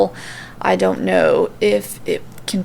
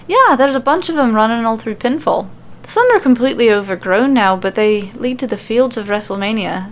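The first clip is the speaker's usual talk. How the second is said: light Irish lilt, offhand; casual Irish brogue, lightly voiced; Irish accent; 3 semitones higher than usual. Becky explains the old roads, light Irish accent. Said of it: "super hard to switch between accents".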